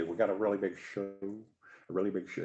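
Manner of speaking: lightly imitated TV host catchphrase; Ed Sullivan. Explaining the host to co-host, lightly mimicked. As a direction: say "show" as "shoe", hint of mimicry. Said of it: "he would always say".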